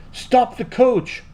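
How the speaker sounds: high, drawn-out royal call; commanding shout. A narrator's reading. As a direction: call out slowly to halt everyone. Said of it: "so he shouted".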